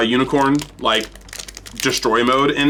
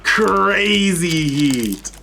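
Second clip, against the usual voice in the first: shocked laughter; 5 semitones higher, much slower than usual. Real, not acted. Reacting to the pull.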